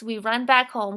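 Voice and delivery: "We run back home" with a short pause after "home"; quick pause at the comma. Shown as a demonstration. Teacher showing pupils the comma pause after "home". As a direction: stop briefly after "home". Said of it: "it's a quick little pause".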